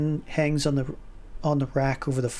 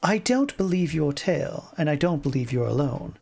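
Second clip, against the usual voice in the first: blunt. Acted. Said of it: "she says bluntly".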